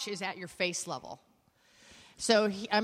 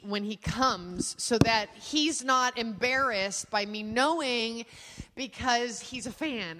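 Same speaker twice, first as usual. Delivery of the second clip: slow; slower than usual. Retold or imitated. Slowly explaining her plan.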